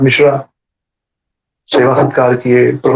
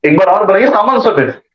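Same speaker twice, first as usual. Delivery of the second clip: mildly urgent, higher-pitched coaxing; pleading request; 4 semitones higher than usual. Retold or imitated. Father asking the brahmin to cook once more, pleading. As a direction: coax a guest, pitch lifting. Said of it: "बहुत request किया".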